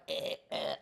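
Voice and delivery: burping mid-sentence; belching. Real, not acted. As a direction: let out small belches. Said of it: "my body's going".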